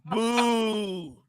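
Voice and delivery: boo through laughter; laughing while booing. Real, not acted.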